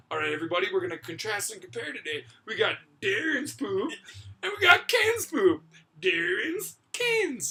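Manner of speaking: loud, high mock announcer; mock presenter. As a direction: present it like a show host. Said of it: "he goes".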